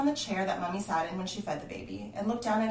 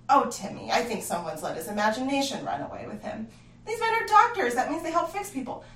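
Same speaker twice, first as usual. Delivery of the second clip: laughing, higher and louder, brushing it off; laughing dismissal; 5 semitones higher, 6 dB louder than usual. Acted. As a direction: chuckle the boy's worry away. Father laughs off child's claim.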